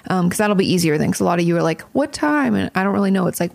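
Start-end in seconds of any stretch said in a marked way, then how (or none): 1.9-2.5 higher mock asking voice; imitated curious viewer, pitched up; viewers' question. Host mimics viewers asking when questions go out, higher mock question.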